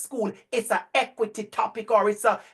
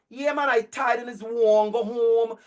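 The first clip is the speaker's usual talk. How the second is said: put-on Guyanese accent. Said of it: "I play somebody from Guyana".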